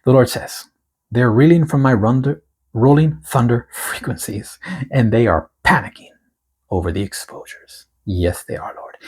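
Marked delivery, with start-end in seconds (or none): 1.1-7.9 prophetic proclamation. Acted. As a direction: proclaim it like a prophet reading a decree. Reads the prophetic word aloud.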